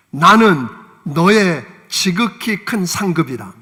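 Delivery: slow, solemn voice of God; a hint of God speaking gravely. Preacher voices God slowly. (하나님의 목소리로 천천히 장엄하게)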